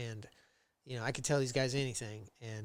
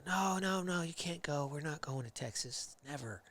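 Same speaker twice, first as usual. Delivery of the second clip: retold refusal; 2 semitones higher, 4 dB quieter than usual. Wife refusing a move to Texas, retold refusal. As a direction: mimic a spouse putting her foot down, tailing off softly.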